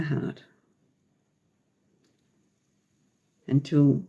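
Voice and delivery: measured meditation lead with long pauses; unhurried phrases spaced out for breathing; guided meditation. Real, not acted. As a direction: guide listeners gently through breaths, leaving long silences.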